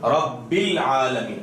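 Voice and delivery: slow "العالمین", ba from the inner lips; correct ba articulation. Shown as a demonstration. Teacher showing students where ba is articulated, careful recitation. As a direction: recite "رب العالمین" slowly, lips meeting on the inside. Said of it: "اندرونی حصے کو ملانے سے با ادا ہوتا ہے".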